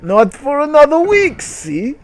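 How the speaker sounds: high loud chipper appliance voice; hammed-up talking block. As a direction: answer like a cheery machine. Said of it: "said the block".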